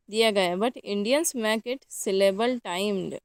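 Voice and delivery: drawn-out words laid down one at a time; slow dictation. Shown as a demonstration. Teacher dictating the key point to the class, slowly. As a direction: give it slowly so they can write it.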